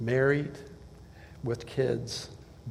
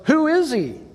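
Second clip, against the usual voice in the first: astonished disciples. Retold or imitated. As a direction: ask it in disbelief. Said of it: "Their question was".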